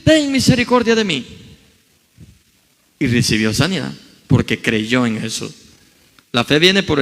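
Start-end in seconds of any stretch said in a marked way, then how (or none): 0.0-1.3 high, loud plea that eases toward its end; shouting louder. A narrator's reading. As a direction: yell over those hushing him, pleading. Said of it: "Y él más gritaba".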